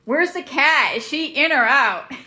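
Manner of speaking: loud, excited calling out; yelling. Real, not acted. Exclaiming at snowfall to boys upstairs, yelling. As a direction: project it loudly through the house. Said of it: "I'm yelling".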